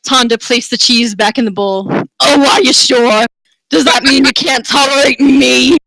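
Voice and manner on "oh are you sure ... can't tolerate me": teasing flirt. Acted. Tonda teases Marcus.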